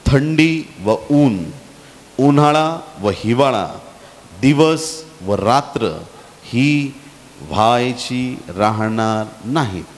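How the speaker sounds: slow, measured verse reading with long pauses; scripture reading. A narrator's reading. Preacher reads Genesis to the congregation, slow and solemn. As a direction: read the verse out phrase by phrase, slowly.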